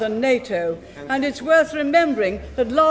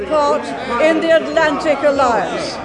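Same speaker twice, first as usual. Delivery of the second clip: raised voice; 4 dB louder than usual. Real, not acted. Prime Minister speaks over heckling.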